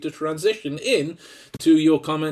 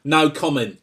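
put-on Essex accent; 4 dB louder than usual. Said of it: "my flagrant attempt at an Essex accent".

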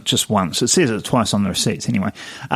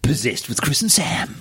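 slow whispered title; mock spooky whisper. Host jokingly proposing the podcast name, slow spooky whisper. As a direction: breathe it like a spooky announcer. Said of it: "mock podcast title".

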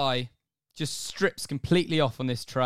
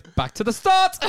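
gleeful shout; 6 dB louder than usual. Retold or imitated. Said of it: "He goes".

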